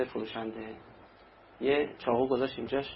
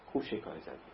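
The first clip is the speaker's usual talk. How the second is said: sly gloat; 9 semitones lower, 11 dB quieter, faster than usual. Retold or imitated. Profiteer gloating, repeated.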